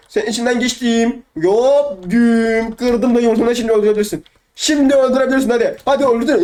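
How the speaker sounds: taunting. Real, not acted. Taunting opponent while attacking their egg.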